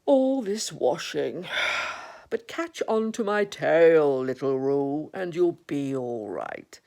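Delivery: slow grumble; Eeyore. Acted. Eeyore with his back to the accident, slow grumble. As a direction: drag it out, grumbling to yourself. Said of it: "was grumbling quietly to himself".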